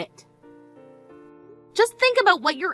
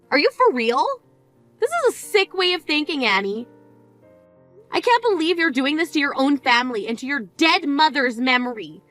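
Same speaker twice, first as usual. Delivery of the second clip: scolding. Acted. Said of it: "Why are you talking to me like this?".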